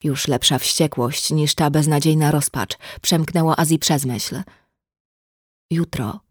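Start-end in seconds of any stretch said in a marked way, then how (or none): 5.7-6.2 syknięte. Acted. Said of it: "syknął Ariel".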